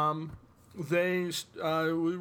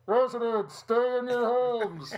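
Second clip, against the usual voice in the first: higher, slow bad Wisconsin accent; 7 semitones higher, 4 dB louder, slower than usual. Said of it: "my bad Wisconsin accent".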